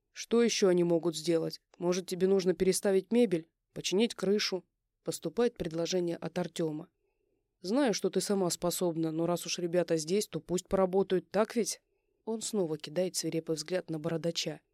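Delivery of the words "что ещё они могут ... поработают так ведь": commanding neighbour, a touch stern; firm male neighbour. Acted. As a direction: give orders, half-joking.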